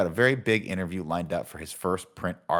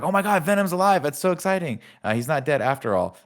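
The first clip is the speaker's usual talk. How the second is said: much higher, gushing fan voice; mock excitement; 6 semitones higher than usual. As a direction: squeal like a thrilled fan. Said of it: "And then we're like".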